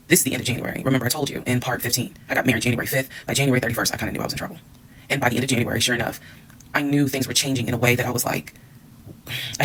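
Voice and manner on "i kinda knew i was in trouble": quiet aside. Real, not acted. Aside about her marriage.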